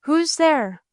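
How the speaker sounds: high mock scream into the dark; screamed call. A narrator's reading. Alice screams to the unseen light, high-pitched call. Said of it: "but screamed out".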